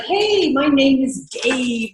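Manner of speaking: bright welcoming hello, slow; friendly receptionist greeting; friendly phone greeting. Shown as a demonstration. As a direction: greet the caller like a welcome guest. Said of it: "so here's what you want".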